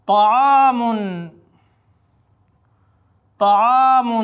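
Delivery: طعام called out loudly and clearly; loud word demo. Shown as a demonstration. Teacher to students calling out the Arabic word loudly. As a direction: project طعام so the class can repeat it. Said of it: "آپ بھی دہرائیں ساتھ میں".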